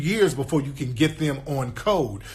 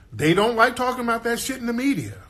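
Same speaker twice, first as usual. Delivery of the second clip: high, insistent complaint; high-pitched insistence; 8 semitones higher, faster than usual. Real, not acted. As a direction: say it high in one sustained run, dropping at the end. Emphatic claim, then restated more pointedly.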